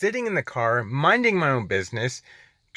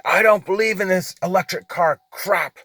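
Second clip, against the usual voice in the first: higher-pitched, mildly mocked rant; retold yelling; 5 semitones higher than usual. Driver quoting the angry man at the charger, retold yelling. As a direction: imitate an angry man's yell without much volume. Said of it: "He's just yelling".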